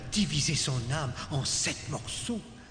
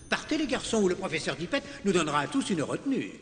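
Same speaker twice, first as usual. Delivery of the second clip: hurried urging; 7 semitones higher, 4 dB louder, faster than usual. Acted. Teacher shooing boys out late.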